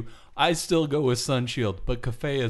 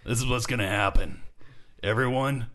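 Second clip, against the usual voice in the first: heel wrestling promo; 2 semitones lower than usual. Acted. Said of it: "Do you wanna cut a promo".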